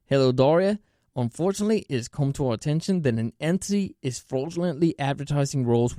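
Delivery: reading the company email out, steady and plain; email read aloud. Shown as a demonstration. Reading the fraud warning email to viewers, a plain steady read. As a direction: read it out word for word, evenly.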